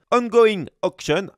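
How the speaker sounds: slow, hammed-up English accent; French speaker proudly putting on an English accent; self-mocking English accent. Shown as a demonstration. Tutorial host showing off English on a menu name, mock English accent. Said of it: "mon super accent anglais".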